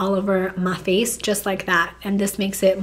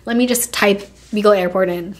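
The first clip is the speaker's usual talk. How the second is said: annoyed; 4 dB louder than usual. Retold or imitated. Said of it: "I'm just like".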